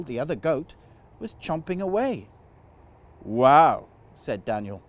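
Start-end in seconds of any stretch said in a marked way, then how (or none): 3.2-3.9 loud, astonished wow; amazed wow. Acted. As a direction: blurt it out in delight. Daniel tastes the root.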